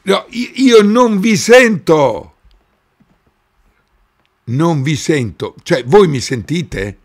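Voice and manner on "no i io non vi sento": higher, louder and slow; calling from far away. Real, not acted. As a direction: shout it slowly so they hear. Calling over a failing audio link.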